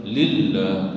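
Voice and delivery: "Lillah" with the double l held; isolated model "Lillah", doubled l clear; shaddah stressed. Shown as a demonstration. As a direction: press firmly on the ll of Lillah. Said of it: "di situ ada syaddah".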